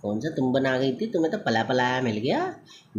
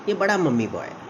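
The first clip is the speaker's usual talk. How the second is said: teasing jab; 5 semitones higher, faster than usual. Retold or imitated. Girlfriend teasing, quoted. ("ये" पर ज़ोर देकर चिढ़ाते हुए)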